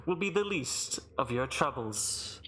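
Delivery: lightly voiced ominous herald; measured proclamation; booming arena announcer. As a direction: finish the warning with formal relish. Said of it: "booming voice echo throughout the arena".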